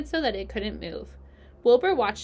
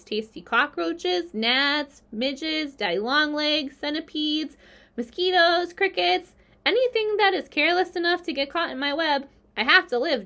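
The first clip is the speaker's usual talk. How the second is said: higher voice climbing through the list; mounting list; 7 semitones higher, 4 dB louder than usual. A narrator's reading. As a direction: build item by item, pitch rising. Spider relishing list of her prey.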